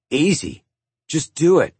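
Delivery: lightly snarled retort. A narrator's reading. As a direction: snap back with a touch of defiance. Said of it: "Walter snarled".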